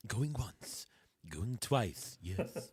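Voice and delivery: low, slow auctioneer as George Washington. Pretend. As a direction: call the bids like an old-time founding father. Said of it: "have the bidding in, like, George Washington's voice".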